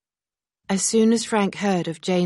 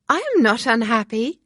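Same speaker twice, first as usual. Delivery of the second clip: laughing; 6 semitones higher, 7 dB louder than usual. Acted. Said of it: "Harriet said with a laugh".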